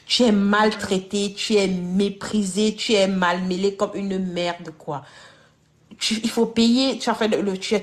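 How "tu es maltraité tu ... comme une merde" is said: énumération appuyée. Real, not acted. Énumère les mauvais traitements.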